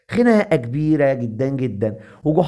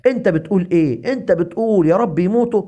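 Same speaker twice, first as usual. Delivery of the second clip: higher, mildly outraged challenge; storybook angry accusation, pitched up; indignant confrontation; 4 semitones higher than usual. Acted. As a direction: confront him in acted indignation. Fighters turn on Goha, confronting him.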